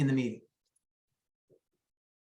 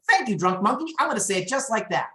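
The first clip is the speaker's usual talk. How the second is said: higher, bright mock thanks; mock grateful reply; 5 semitones higher than usual. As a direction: thank the monkey with cheeky sarcasm. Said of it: "then you're like".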